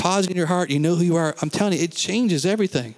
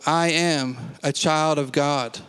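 each word laid down slowly and firmly; slow solemn declaration; much slower than usual. Shown as a demonstration. Pastor leading the congregation's confession, slow and solemn. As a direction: declare it like you truly believe it. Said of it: "really receive it into your heart".

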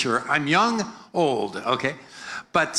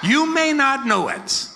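lifted, slow high call to the crowd; raised preacher call, slow; 9 semitones higher, 4 dB louder than usual. Shown as a demonstration. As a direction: sing it out high for them to echo. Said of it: "Come on, say it".

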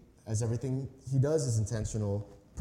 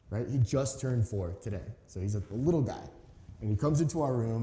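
ordinary talk, nothing marked

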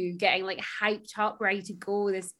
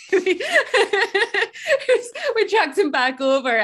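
laughing through words; 10 semitones higher, 7 dB louder than usual. Real, not acted. Laughing while telling battle story.

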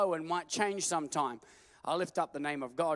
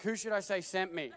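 laughing; 3 semitones higher than usual. Acted. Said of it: "I'm like".

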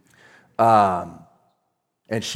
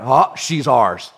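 retort to the demon; 4 dB louder, much slower than usual. Retold or imitated. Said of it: "And I went".

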